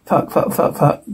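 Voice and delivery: whispered swearing under breath; frustrated muttering. Real, not acted. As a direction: curse quietly in frustration. Stuck, frustrated.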